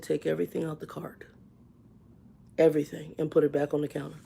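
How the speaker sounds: whispered aside to the bagger; hushed order. Retold or imitated. Telling the bagging girl, a whispered order. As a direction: keep it low and secret, unvoiced.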